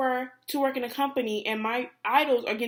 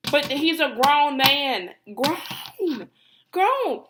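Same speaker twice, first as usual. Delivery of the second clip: grown drawn out slowly, louder, then higher; stress on grown; 3 semitones higher, 5 dB louder, much slower than usual. Real, not acted. Insisting to fans that he's a grown man. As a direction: hammer grown again and again. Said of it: "that's the emphasis".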